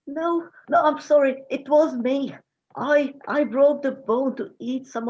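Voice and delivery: put-on a scared boy owning up fast; panicked confession. Boy confesses, begging for mercy.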